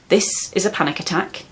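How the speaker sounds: calm, steady statement, falling at the end; reassuring. Shown as a demonstration. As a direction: say it plainly and kindly, without belittling. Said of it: "is deeply reassuring".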